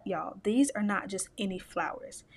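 hushed, breathy secret for the audience; whisper. Real, not acted. Telling viewers about the special flowers, in a whisper.

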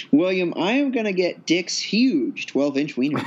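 laughing through the words; barely holding back a laugh. Real, not acted. Joking order, laughing through it.

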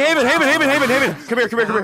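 high, eager calling out. Real, not acted. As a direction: call out to a friend. Calling a friend.

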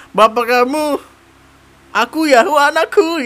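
suara tinggi melengking ala gombal; gombalan dibuat-buat. Retold or imitated. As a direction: tirukan cowok gombal dengan nada tinggi. Menirukan gombalan dengan suara tinggi. (menirukan gombalan cowok dengan suara tinggi)

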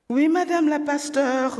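mock-respectful and a bit loud; sarcastic. A narrator's reading. Annoyed father mocks his daughter, sarcastic. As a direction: tease her as a preacher.

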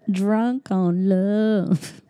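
drawn-out crooning line; a hammed-up lovesick croon; dreamy mock. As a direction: stretch it slow like a bad love song. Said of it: "That was terrible".

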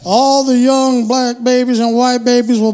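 a hint of a grand civil rights speech, slowed right down; Martin Luther King impression. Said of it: "was that an attempt at an impersonation".

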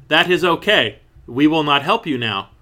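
stilted, evenly paced parent lines with no feeling; unloving parents. Acted. Parents turning down Melissa's plea for math help, emotionless. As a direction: say it like a parent with no warmth behind the words. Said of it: "that's pretty much how they talk to her".

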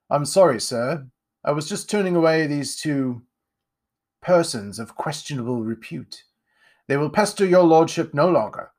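lightly voiced fawning servant; a hint of grovelling to the master. Servant apologising to his lordship, lightly voiced.

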